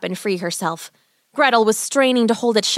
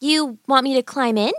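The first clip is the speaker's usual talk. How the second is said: put-on higher, innocent questioning child; stalling girl; 5 semitones higher than usual. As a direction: play dumb, lifting the end. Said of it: "She decided to stall".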